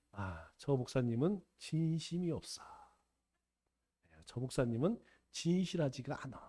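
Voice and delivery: low, soft grumbling inner voice; deaconess's inner thought. Retold or imitated. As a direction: murmur it like a private complaint. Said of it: "이렇게 생각해요". (속으로 중얼거리듯 낮고 작게)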